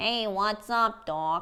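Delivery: slow, nasal, drawn-out cartoon rabbit voice. Showing how to feel nasal buzz: Bugs Bunny voice. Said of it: "doing your best Bugs Bunny impersonation".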